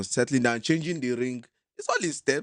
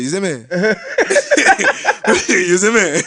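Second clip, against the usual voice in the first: put-on Jamaican accent; 2 semitones higher, slower than usual. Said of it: "we'll do Jamaican accent".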